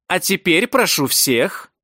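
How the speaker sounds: high, slow kindergarten-teacher announcement; loud and clear. A narrator's reading. Senior stewardess herding passengers like children, loud and clear. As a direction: enunciate slowly, as if to small children. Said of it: "громко и чётко, как в детсаду".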